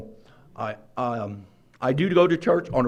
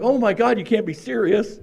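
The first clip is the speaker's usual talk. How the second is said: higher, louder exasperated disbelief; mock disbelief; 7 semitones higher, 3 dB louder than usual. Getting a flat on the way to the meeting, exasperated. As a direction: throw up your hands at bad luck.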